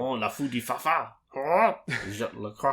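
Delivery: bad French accent. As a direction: ham up a cartoon French accent. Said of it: "quoting Pepe Le Pew".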